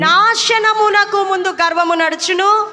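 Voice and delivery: preacher lining out scripture; measured call for the congregation to repeat; slow verse reading. Shown as a demonstration. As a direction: read the verse slowly, word by word. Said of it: "సామెతల గ్రంథము పదహారవ అధ్యాయము".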